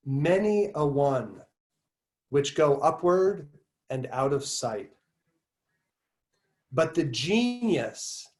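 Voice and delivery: slow, measured recitation with pauses between phrases; essay reading. Acted. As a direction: read the passage out deliberately, stretching key words. Reads essay passage aloud.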